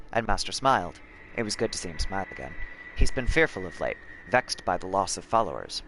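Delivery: steady, grave reading voice; story narration. Acted. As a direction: read it like a diary. Reads game codex aloud.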